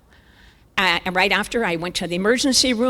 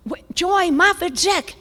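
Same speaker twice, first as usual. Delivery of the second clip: slow, breathy dramatic whisper; 9 semitones higher, slower than usual. Retold or imitated. Hushed announcement of her own name. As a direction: draw the name out in a hush.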